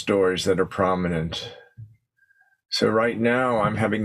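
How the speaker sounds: unhurried meditation guidance with long pauses; guided meditation. Acted. Teacher settling the group into posture and breath, guided meditation. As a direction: ease them gently into stillness, leaving space between phrases.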